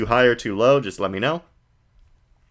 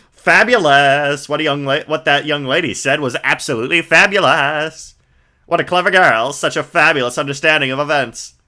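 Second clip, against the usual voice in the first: flamboyant magician; 4 semitones higher, 4 dB louder than usual. Acted. Max greeting the visitors, lightly voiced flamboyant showman. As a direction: ham up a vain showman.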